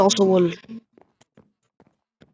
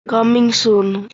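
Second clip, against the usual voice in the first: slow drawl; much slower than usual. Real, not acted. Reads sign slowly, then repeats.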